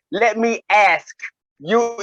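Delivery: "ask" said as "ass" with no K; slow, swallow the K in "ask"; dropped K on ask. Shown as a demonstration. Showing friends how he says ask, slow with no K. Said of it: "now watch this".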